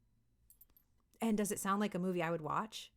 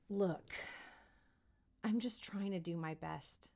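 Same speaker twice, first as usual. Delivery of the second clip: quieter, sincere, with a lead-in look; softer, earnest plea; 3 semitones lower, 7 dB quieter than usual. Shown as a demonstration. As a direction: plead gently. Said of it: "say the word look".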